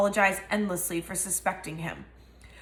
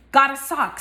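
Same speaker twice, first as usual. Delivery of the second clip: stunned, slightly louder gasp of disbelief; 5 semitones higher, 6 dB louder than usual. Acted. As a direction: say it like you can't believe your eyes. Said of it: "said Dobby in disbelief".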